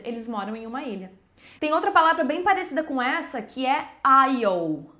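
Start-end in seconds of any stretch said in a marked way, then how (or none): 4.0-4.9 "aisle" said slowly as "I'll"; silent S. Shown as a demonstration. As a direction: draw out "aisle" with the S dropped. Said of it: "a gente vai tirar o S". ("aisle" devagar, com S mudo)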